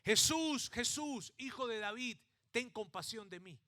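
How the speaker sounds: the beggar cries out to Jesus as he passes; blind beggar shouting. Retold or imitated. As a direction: shout for Jesus over the crowd. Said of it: "Bartimeo empieza a gritar".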